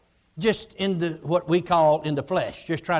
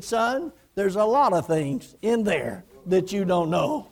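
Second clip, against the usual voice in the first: gentle smiling reply; slower than usual. Retold or imitated. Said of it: "smiled sweetly".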